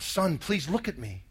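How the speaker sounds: low, soft, slow pleading; shaken plea, retold. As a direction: quietly voice a father's vulnerable appeal. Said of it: "and he was shaking".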